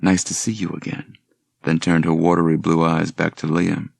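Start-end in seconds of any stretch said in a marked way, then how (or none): 0.0-1.2 perfunctory. Acted. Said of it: "a perfunctory".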